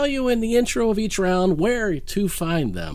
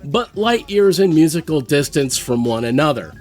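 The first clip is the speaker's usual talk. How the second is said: polished show-intro read; announcer read; 3 semitones lower than usual. Acted. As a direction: present the matchup like a host. Reads the round intro.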